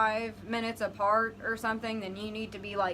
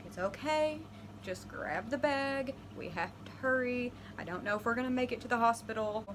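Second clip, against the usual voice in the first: soft, reassuring, urgent; calm him quietly but hurry; soothing; 5 dB quieter than usual. Retold or imitated. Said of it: "and I'm like".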